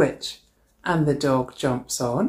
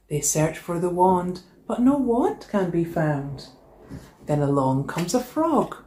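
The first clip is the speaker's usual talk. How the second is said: lively storybook read-aloud; animated picture-book narration; reading to children; slower than usual. A narrator's reading. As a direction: read it like story time for a class. Teacher reads picture book aloud.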